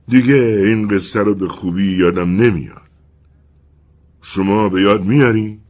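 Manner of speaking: the wind as an old storyteller, lightly played; wind character voice. The wind admits it forgot the story, lightly voiced.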